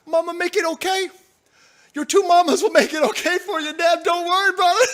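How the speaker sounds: high hammed-up baby voice; mock whiny baby. Mock babying, rising.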